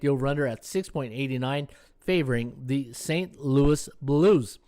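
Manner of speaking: strained, tired voice; losing voice. Real, not acted. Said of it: "losing my voice here".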